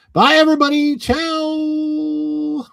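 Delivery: high, loud cheery goodbye; excited farewell. Real, not acted. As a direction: sign off with a big bright wave. Excited stream sign-off.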